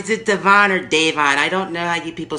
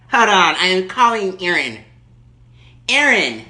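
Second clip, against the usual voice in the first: Erkenbacher; 4 dB louder than usual. Acted. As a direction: play the furious entitled lady on the phone. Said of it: "Erkenbacher calling back".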